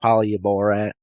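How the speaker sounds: exaggerated Borat-style Russian accent; hammed-up Russian accent, Borat style. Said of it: "saying that in a Russian accent is so difficult".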